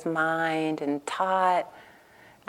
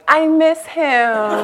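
retold crying; 7 semitones higher, 3 dB louder, much slower than usual. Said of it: "I started spontaneously crying, going".

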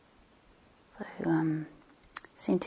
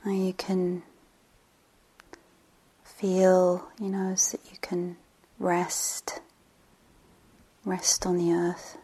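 unhurried meditation guide, long pauses between phrases; guided meditation. Real, not acted. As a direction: settle listeners gently, leaving space after each phrase.

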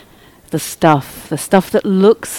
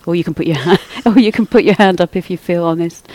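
laughing; much faster than usual. Real, not acted. Teacher invites a show of hands, laughing. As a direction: chuckle breaking into the words.

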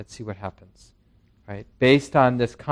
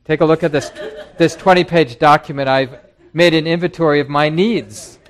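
lightly laughing, louder and brighter, presenting a list; playful pitch to a new partner, laughing through it; mock cheerful pitch; 4 semitones higher, 7 dB louder than usual. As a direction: hand over the twenty-page document with a chuckle. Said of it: "we'd say, you know".

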